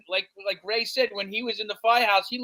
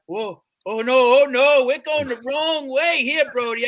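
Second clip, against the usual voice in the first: alarmed; 5 semitones higher, 5 dB louder than usual. Retold or imitated. Rig turning the wrong way.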